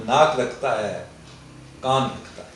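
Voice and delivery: put-on Urdu verse in a Pashto accent. Poet reciting his comic Pathani ghazal to the host, Pashto accent. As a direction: recite with a light Pashto lilt. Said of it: "میں پڑھتا بھی اسی لہجے میں تھا".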